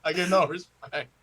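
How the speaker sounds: Rodney Dangerfield impression. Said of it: "Rodney Dangerfield".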